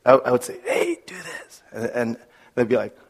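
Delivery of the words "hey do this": retold whispered order. Father with laryngitis whispering an instruction to his kids. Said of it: "Why are you talking so quietly".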